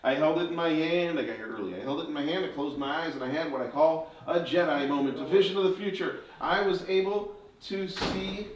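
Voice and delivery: put-on showman patter for children; kids party magician. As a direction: build wonder like a stage magician.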